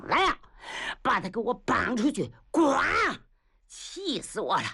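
sharp shouted orders to the guards; feigned rage. Acted. Prince pretending fury at the captive, shouting. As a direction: bark the order to drag him out.

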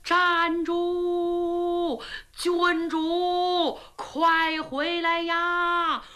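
high, loud shout to halt the princess; shouting after the princess to stop her, loud and high; loud call from afar. A narrator's reading. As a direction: bellow it across the field. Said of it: "就听有人高喊".

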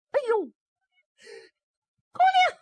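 very high, very loud cry with the voice breaking; a maid shrieking at the sight; cracking scream. Acted. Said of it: "丫鬟都岔了音儿了". (丫鬟破了音的尖叫)

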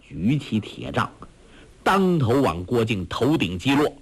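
usual speaking voice

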